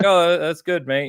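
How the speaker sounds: cheerful Northern English "oh, that's good, mate"; Northern English accent. Retold or imitated. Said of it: "you know, in his accent".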